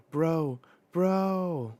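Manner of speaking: high, loud yell, rising on the second; acted yell. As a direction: yell out to your friend. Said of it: "And he's yelling".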